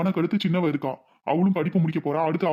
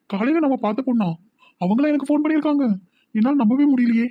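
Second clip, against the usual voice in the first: excited disbelief; 6 semitones higher than usual. Acted. Thrilled she called him.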